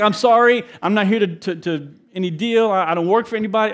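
retelling a frightened plea to the street crowd; nervous apology. Retold or imitated. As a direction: blurt it out scared. Panicked apology to the locals.

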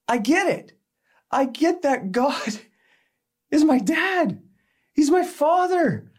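high, loud emotional outpouring; overwhelmed realization. Retold or imitated. Telling an elderly stranger on a plane, high and overwhelmed. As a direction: blurt it out through tears of joy.

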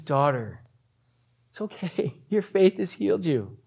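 soft, tender words; gentle reassurance. Acted. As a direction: comfort softly, as a kind healer. Voicing Jesus comforting the woman.

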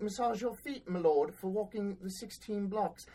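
drip fake pity on them; syrupy mock concern for whiny tourists; mock sympathy. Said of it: "I'm like".

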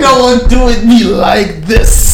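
high, drawn-out comic plea; mock pleading. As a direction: beg heaven in a hammed-up wail.

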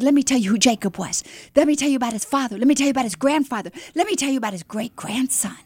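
rapid-fire eager listing; fast, enthusiastic. Retold or imitated. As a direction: rattle it off without stopping. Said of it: "as fast as I could talk".

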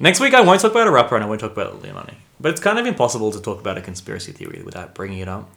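strained, fading voice; talking through a worn-out voice; voice giving out. Real, not acted. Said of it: "Why am I losing my voice?".

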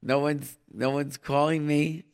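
ordinary talk

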